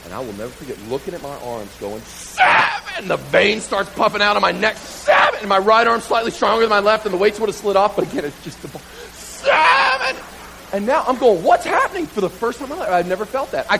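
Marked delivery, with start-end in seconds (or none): 2.0-3.1 unvoiced straining shout on one rep count; strained yell. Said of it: "hears all this screaming". 4.8-5.4 much higher, louder desperate yell; screaming the count. Retold or imitated. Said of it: "hears all this screaming". 9.1-10.2 much higher, louder desperate yell; screaming the count. Retold or imitated. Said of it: "hears all this screaming". 11.4-12.1 high, louder alarmed question; panicked cry. Retold or imitated. Panicking under the bar.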